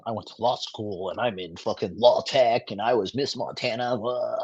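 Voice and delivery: put-on mocking voice, whiny; mocking her bragging; mocking Miss Montana. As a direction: mimic her bragging in a snide voice. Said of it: "she's like".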